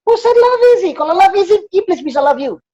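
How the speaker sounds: rhetorical challenge. Real, not acted.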